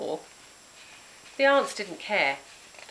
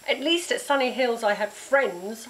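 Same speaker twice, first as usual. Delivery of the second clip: higher, louder angry shout; 5 semitones higher, 4 dB louder than usual. Acted. Girl shouting back at Grizz, hurt anger. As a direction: throw it in her face. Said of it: "I shouted".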